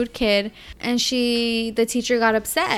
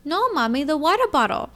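put-on higher little-girl voice; imitated small child; 5 semitones higher than usual. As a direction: answer like an innocent child. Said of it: "she goes".

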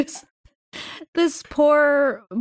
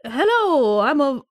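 Savannah Southern accent; 2 semitones higher than usual. Shown as a demonstration. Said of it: "more of like a Savannah Southern accent".

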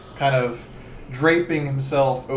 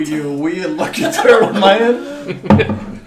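put-on southern accent; 3 semitones higher, 7 dB louder than usual. Magistrate dismissing the wrong adventurer, southern accent. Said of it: "Stop doing the southern accent".

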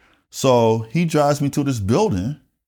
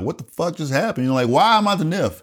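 mildly frantic, higher-pitched questions; retold freak-out; 6 semitones higher than usual. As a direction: act out bewildered protest, voice lifting. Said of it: "So I'm freaking out".

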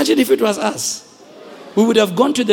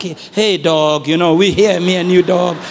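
casual street greeting; 7 semitones lower, 3 dB louder than usual. Retold or imitated. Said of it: "It's not like".

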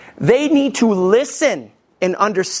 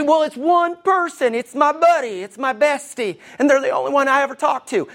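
higher-pitched mock protest; defensive excuse; 6 semitones higher than usual. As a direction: plead the excuse in a lighter, higher voice. Voicing a defensive gossiper's excuse.

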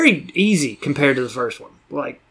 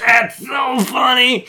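slow deadpan; 9 semitones higher, much slower than usual. Retold or imitated. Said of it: "I was just like".

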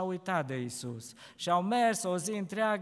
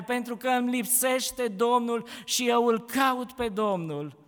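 lamenting Mary; 3 semitones higher, 4 dB louder than usual. Acted. Mary tells the gardener why she weeps, mildly grieving.

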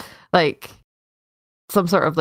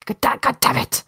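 mock curse; 7 semitones higher than usual. Shown as a demonstration.

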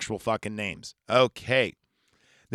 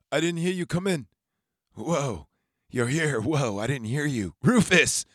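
higher, jumpy startled voice; mock jump-scare surprise; startled Harker; 5 semitones higher than usual.

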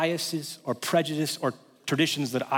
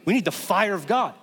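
dull preacher voice; 5 semitones higher than usual. Retold or imitated. Pastor repeats the dull preacher's line in that tone. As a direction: drone it like the bored preacher. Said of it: "In that tone".

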